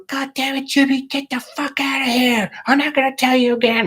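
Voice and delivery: high-pitched mock tirade of a dad flipping out; imitated angry dad. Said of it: "he would just flip the fuck out".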